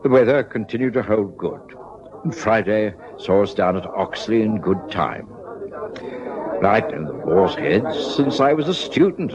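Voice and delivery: calm, measured storyteller narration; a steady first-person narrator recalling events; story narration. A narrator's reading. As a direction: tell it like a memoir read aloud. Watson narrates between scenes.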